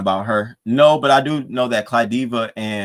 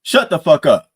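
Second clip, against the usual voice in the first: barked out, louder and higher; retold angry yell; 6 semitones higher, 10 dB louder than usual. Lemon yelling at a singer to shut up, angry shout. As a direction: snap it at her like he did on stage. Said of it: "and he said".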